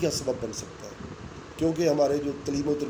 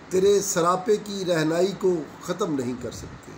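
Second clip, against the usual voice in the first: poem recitation. Acted. Recites a second nazm.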